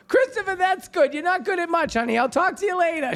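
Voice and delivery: high, sweetly dismissive mom; mother's voice. Retold or imitated. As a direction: coo it like a mom gently putting down her son. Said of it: "Finally, she goes".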